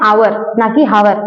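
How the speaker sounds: आवर said without the h, then हावर with a breathy h, slowly; slow teacher contrast of आवर and हावर; slow pronunciation demo. Shown as a demonstration. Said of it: "क्या pronounce कर रहे हैं?".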